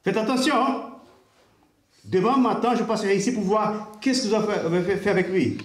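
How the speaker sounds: lightly voiced gang boss, bossy. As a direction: order the hotel staff around like a boss. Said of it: "il arrive comme un patron".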